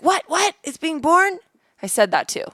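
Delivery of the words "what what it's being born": shocked disbelief. Retold or imitated. Husband reacting to the baby coming out, high and stunned. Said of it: "he was like".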